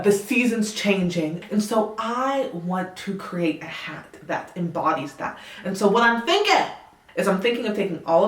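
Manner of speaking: light put-on Southern accent. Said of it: "if my Southern accent isn't the best".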